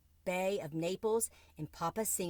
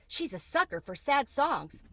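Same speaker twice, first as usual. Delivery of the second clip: much higher, louder excited squeak; a tiny mouse squealing with glee; squeaky mouse; 8 semitones higher, 4 dB louder than usual. A narrator's reading. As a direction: mouse cheering the cricket on in a high squeak. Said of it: "squeaked Tucker Mouse".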